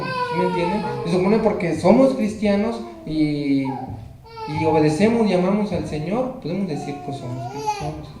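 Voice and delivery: choked, slowed pleading; tearful. Real, not acted. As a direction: hold back tears while asking. Preacher still emotional, pleading with listeners.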